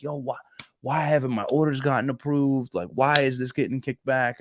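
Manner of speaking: mildly frustrated why-me questioning; exasperated pleading. Retold or imitated. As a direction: plead for an explanation. Retold complaint to God about orders.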